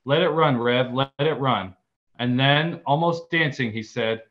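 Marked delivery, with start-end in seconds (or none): 0.0-1.8 mild mock yelling. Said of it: "on their feet yelling".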